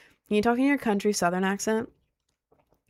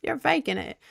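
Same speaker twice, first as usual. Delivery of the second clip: put-on Southern voice, pitched up; mock Southern accent; 4 semitones higher than usual. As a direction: scoff like a disbelieving Southerner. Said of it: "most Southerners are like".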